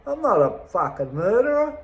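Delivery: put-on retorting to older passengers, angry; angry denial. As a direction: bite back at the gossip on the bus. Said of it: "and I'd be go".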